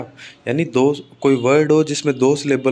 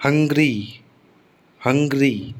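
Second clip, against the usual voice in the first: हंग्री with strong हंग and easy falling री; stress on first syllable. Shown as a demonstration. Teacher giving an adjective example, हंग्री stressed on हंग. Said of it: "तो हंग जो है ना".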